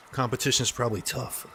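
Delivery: talking between sips of coffee; slurping hot coffee. Real, not acted. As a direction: sip hot coffee mid-sentence. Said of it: "Sorry if I'm slurping my coffee".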